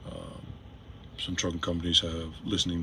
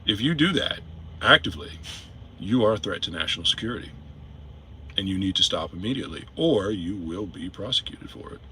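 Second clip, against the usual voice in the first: deliberate, emphatic official warning; scripted formal warning. Shown as a demonstration. Truck driver warning companies about national security, formal warning. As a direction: deliver it as a formal notice, phrase by phrase.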